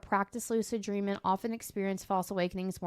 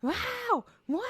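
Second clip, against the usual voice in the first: high-pitched yowling imitation of a pet; mock screechy pet cry; imitated pet screaming; 13 semitones higher than usual. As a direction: mimic an excited animal, pitched way up. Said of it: "he'll chase it screaming".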